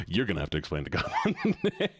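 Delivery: laughing through the repeat. Real, not acted. Streamer repeating her own joke, laughing. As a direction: giggle as you echo it.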